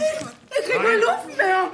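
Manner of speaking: gasping, can't breathe; laughing-crying fight for air; finish line collapse. Acted. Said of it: "Die hat eine migränische Asthma-Attacke".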